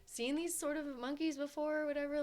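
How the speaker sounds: mildly mocking retelling of the guide's question; imitating the guide. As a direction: lift up high to mimic the chatty exhibit lady. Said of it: "But she was like".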